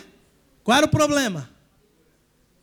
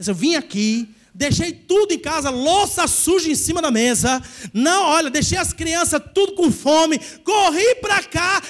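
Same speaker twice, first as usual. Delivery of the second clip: hammed-up offended churchgoer; whiny believer; 3 semitones higher than usual. Mocking the needy modern believer who feels ignored, whining. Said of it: "crente do século vinte e um, ia falar assim".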